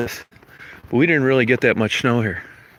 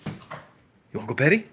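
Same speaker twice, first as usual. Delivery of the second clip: hushed coaxing whisper; whisper to the dog; 5 dB quieter than usual. Real, not acted. Teasing the dog quietly.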